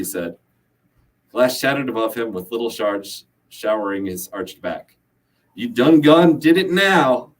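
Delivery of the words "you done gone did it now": high, loud, slow Southern yell; angry yell. A narrator's reading. Gunman struck by guitar, yelling in Southern accent. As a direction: holler it with a mock Southern twang. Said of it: "the man yelled".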